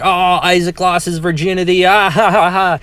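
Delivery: high, loud taunting brother imitation; mocking, hollering laughter. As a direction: holler it gleefully, then break into exaggerated laughter. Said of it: "laughing and hollering and making a joke of it".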